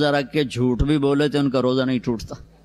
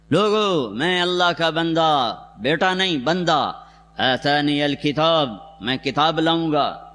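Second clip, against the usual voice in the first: raised ringing declaration; mild proclamation. Retold or imitated. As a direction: announce it firmly to the crowd. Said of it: "زور سے عیسیٰ علیہ السلام شروع ہوئے". (بلند اعلان)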